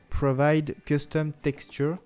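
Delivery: English words in a French accent; self-mocked English accent. Real, not acted. Tutorial host showing off to viewers an English folder name, French-accented English. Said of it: "notez mon superbe accent anglais".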